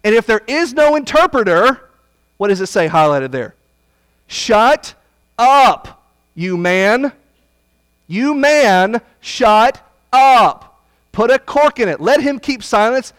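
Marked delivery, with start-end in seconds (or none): 4.3-13.1 loud, high preacher's bark at the tongue speaker; shouted rebuke. Acted. Preacher shouting Paul's order at the tongue speaker, loud rebuke. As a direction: shout him down, higher and louder.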